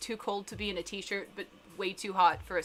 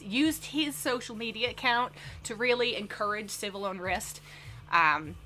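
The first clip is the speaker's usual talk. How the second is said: lightly put-on, self-conscious Southern accent; bad Southern accent. Shown as a demonstration. Streamer reading a news topic to chat as a joke, bad Southern accent. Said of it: "really bad Southern accent".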